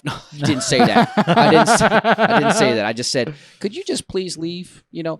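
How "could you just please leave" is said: softer, higher courteous plea; retold meek politeness; polite request. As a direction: ask nicely and slowly. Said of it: "In a polite way".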